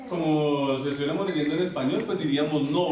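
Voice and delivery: no said the Spanish way, a pure o; teacher shows the wrong Spanish reading of no. Shown as a demonstration. Teacher shows students the Spanish misreading, no with a pure o. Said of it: "esta palabra no se pronuncia así".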